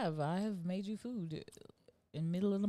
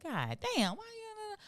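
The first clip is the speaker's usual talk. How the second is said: inner grumble; 3 dB quieter, slower than usual. Retold or imitated. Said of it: "in my head though".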